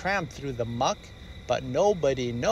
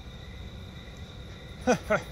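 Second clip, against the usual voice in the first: breathy laugh; 7 semitones higher, 7 dB quieter than usual. Acted. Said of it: "Daddy laughed".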